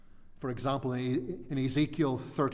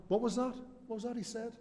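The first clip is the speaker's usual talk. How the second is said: puzzled listener; 8 semitones higher, 5 dB quieter, much faster than usual. Retold or imitated. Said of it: "They weren't going".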